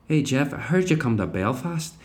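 put-on a faltering Belfast accent; half-hearted Northern Irish accent. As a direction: Belfast accent that slips away. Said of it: "I lost the accent a bit there".

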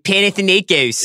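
put-on Panathinaikos squashed into a lazy Philly accent, PAN-ih-thuh-NAY-kiss; mock Philly accent on Panathinaikos. Teasing the host about his Philly accent, mock Philly accent. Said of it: "if you did it in your Philly accent".

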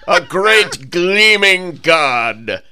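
slow grand prophet. Pretend. Joining the god bit.

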